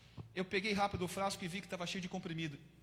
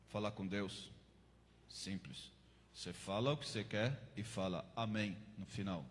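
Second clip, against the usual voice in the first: a big tattooed cellmate asks about the Bible in a much lower voice; deep-voiced cellmate; 10 semitones lower, 3 dB quieter than usual. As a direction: drop deep like a hardened convict. Cellmate explains how to pray.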